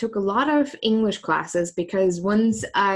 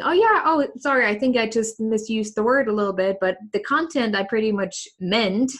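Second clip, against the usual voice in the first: mock apology; 3 semitones higher than usual. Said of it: "or just saying".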